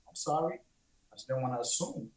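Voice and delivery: quiet, hurried, sheepish backing down; timid apology. Retold or imitated. Imitating a man caught asking too much, quiet and quick. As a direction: shrink back and mumble the apology fast. Apologetic inquirer answering back.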